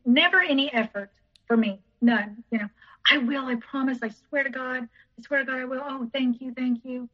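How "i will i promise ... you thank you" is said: soft, hurried imitation of someone promising; pleading promises. Ex swearing he will come visit, soft mock pleading.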